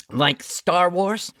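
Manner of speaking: slow, through a mouthful; mouth full. Retold or imitated. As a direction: talk round a bite of pizza. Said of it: "with a mouthful of citrus".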